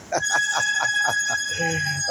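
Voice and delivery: high, long chuckle; amused laugh at the aspirin line; real laugh. Real, not acted. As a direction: laugh at his own quip.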